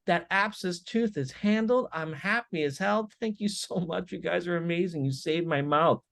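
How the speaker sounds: a pain-free patient gushing thanks; grateful patient voice. Retold or imitated. Patient leaving the dentist, lightly voiced relieved gushing. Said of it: "he's like".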